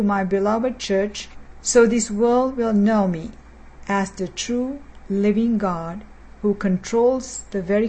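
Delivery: speaking as God, measured and solemn; firm, solemn prophetic utterance to the church; prophetic word. Acted. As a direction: deliver a prophecy in the first person as the Lord. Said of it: "As the Lord has spoken".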